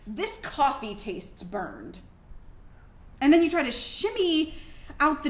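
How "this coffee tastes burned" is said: mock husband quote. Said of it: "all you have to say is".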